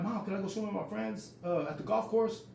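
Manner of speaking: high-pitched kid request, retold; child asking mom. Kid at screen door asking mom to swim, high-pitched request. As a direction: imitate a boy asking his mom.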